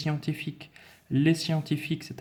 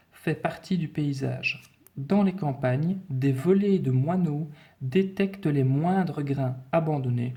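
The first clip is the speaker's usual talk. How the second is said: slow, carefully measured dictation; teacher's deliberate reading aloud; 2 semitones higher than usual. Acted. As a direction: read the sentence out slowly for pupils. Reads dictation sentence aloud.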